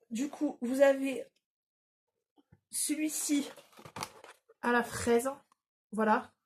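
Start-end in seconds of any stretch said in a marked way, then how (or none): 2.7-3.5 whisper. Real, not acted. Showing item to camera.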